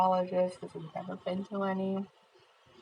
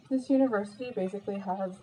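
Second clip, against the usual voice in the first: talking while chewing; words round a bite of food; mouth full. Real, not acted. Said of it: "sorry, I can't stop eating".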